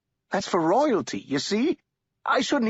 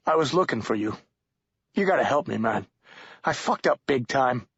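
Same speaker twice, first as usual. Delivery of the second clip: mildly frightened, slightly raised character voice; scared; 3 semitones higher than usual. Acted. Scared man begs Shadow for help, mildly pleading. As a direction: plead for help with a touch of fear. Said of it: "The man looked scared".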